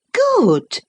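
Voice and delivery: high, loud retort; sharp cry. Acted. Catherine crying out at Isabella, loud and high. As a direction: fling the word out. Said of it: "cried the other".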